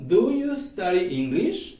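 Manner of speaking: slow and careful, rising at the end; slow model question. Shown as a demonstration. Teacher modelling the question slowly for the class. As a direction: lay it out word by word. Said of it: "Do y el resto de la oración".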